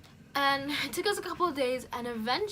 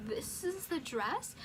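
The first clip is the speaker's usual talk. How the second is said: dismayed disbelief; 6 semitones higher, 7 dB quieter, slower than usual. Retold or imitated. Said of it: "I was like".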